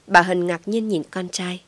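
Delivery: usual speaking voice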